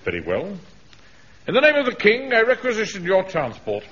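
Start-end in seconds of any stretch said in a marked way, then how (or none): 1.5-3.8 puffed-up officer pulling rank; pompous proclamation. Acted. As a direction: announce it like a royal decree. Grandly commandeering the van.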